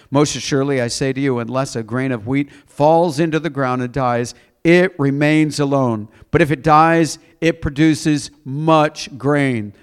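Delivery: emphatic Bible reading to a congregation; scripture reading. Acted. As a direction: read the verse out with weight. Reads scripture aloud.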